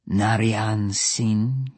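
slow drawn-out name, rising at the end; Vajra the Naga voice. Acted. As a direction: call his name slowly, lightly menacing. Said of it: "I said in my Vajra the Naga voice".

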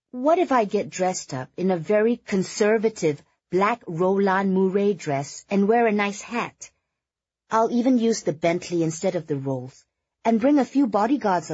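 high-pitched, eager bargaining; pleading socialite Kitty. A narrator's reading. Socialite pleading to be let into the funeral, high and coaxing.

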